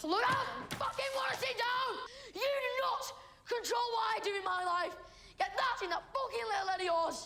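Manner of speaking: very high-pitched, furious, angry tirade. Told to sit down, the speaker snaps back in an angry outburst. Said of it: "that was quite the outburst".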